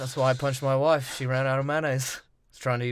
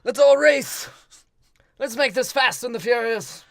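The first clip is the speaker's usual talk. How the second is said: mock eager character; 8 semitones higher, 7 dB louder than usual. Voicing movie character.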